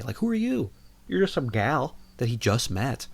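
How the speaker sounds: mock outrage at a movie character; squeaky disbelief; incredulous. Scolding the girl in movie.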